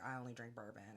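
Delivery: a hint of a gruff manly man; lightly put-on tough-guy delivery. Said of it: "said like a true manly man".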